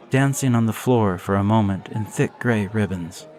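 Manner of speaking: usual speaking voice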